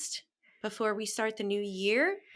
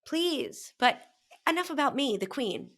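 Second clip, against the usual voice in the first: mock regal; 5 semitones higher than usual. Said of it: "the queen. To you, my princess".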